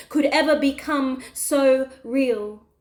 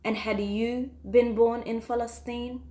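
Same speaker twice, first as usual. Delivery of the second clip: lower, softer, sombre ending; hushed closing; 4 semitones lower, 7 dB quieter than usual. Acted. Poet telling listeners it could have been them, hushed. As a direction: let it sink quietly to the final words.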